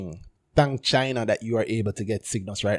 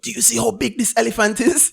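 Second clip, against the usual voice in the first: high, loud boast on the edge of laughter; hammed-up incredulous excitement; acted amazement; 10 semitones higher, 6 dB louder than usual. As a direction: exclaim it like a proud showman. Returns to the boasting rider.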